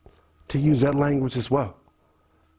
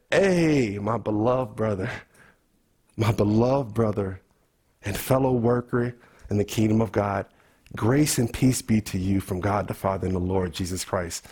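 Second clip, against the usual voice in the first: low, tender blessing to a brother; Pauline greeting; 7 semitones lower than usual. Acted. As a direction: greet him solemnly like an apostle, pitched well down. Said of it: "what if we greeted each other like Paul".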